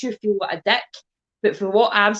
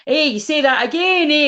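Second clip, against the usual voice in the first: Limmy character impression; 8 semitones higher, 6 dB louder than usual. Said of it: "and he goes like".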